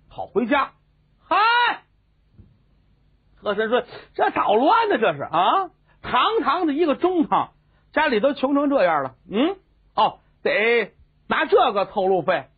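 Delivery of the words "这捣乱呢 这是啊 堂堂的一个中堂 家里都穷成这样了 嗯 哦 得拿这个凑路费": mock official voice. 和珅 mocking servants' poverty.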